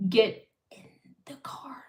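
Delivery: retold whispered order; hushed stern order. Retold order from an angry-seeming relative.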